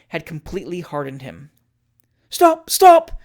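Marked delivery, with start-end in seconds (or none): 2.3-3.2 high, loud cry to halt. Acted. Julia trying to stop the post-boys, loud cry. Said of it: "cried the lady".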